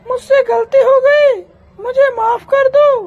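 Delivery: hammed-up teary pleading; butter her up with a mild fake sob; mock pleading. Bahu begs forgiveness. (सास को मनाती बहू का नकली रोना-गिड़गिड़ाना)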